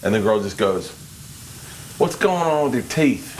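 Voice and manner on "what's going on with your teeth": slow, raised-pitch attempt at a Brooklyn accent; badly done Brooklyn girl's accent. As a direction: do a shaky-grasp Brooklyn accent, drawn out. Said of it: "it was like a Brooklyn accent".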